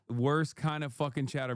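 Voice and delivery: voice cracking. Real, not acted. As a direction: voice breaking mid-phrase. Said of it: "Made me, my voice crack".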